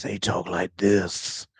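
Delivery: slow, low, soft mumbling Daryl voice; Daryl impression. Shown as a demonstration. Gamer mocks Daryl's speech to chat, slow mumbled impression. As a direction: drag it out the way Daryl talks.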